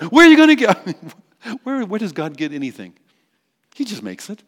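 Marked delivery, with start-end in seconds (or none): 0.0-0.8 high, loud incredulous squeal; mock disbelief. Preacher mocking anyone asking God, high squeal. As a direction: ham up the absurd question. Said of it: "It's like asking God".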